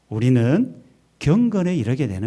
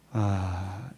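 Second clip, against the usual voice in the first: normal talking voice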